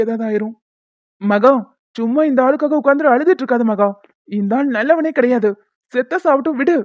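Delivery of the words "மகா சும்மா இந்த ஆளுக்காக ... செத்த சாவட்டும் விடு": louder, harsh rebuke; irritated scolding. Acted. Husband scolds wife weeping over her father, irritated. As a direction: order her to stop crying.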